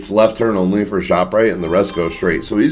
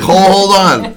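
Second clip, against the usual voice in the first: high, laughing plea to wait; laughing hold on; 9 semitones higher, 4 dB louder, slower than usual. Retold or imitated. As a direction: beg them to hold on while laughing. Friends stalling on the phone.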